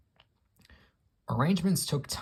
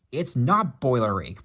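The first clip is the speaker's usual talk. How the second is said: louder protest stressing NOT; 2 semitones higher, 6 dB louder than usual. Acted. Gordon denies he has boiler ache, protesting. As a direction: push back hard on NOT. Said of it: "protested Gordon".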